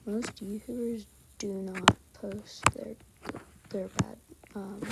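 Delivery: slow, breathy whisper. Real, not acted. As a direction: keep it to a hushed whisper. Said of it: "I have to whisper".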